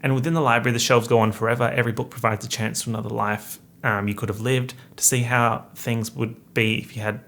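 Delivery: slightly stilted British blurb reading. Shown as a demonstration. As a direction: read it aloud, lightly British. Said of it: "I'm sorry for reading so weirdly".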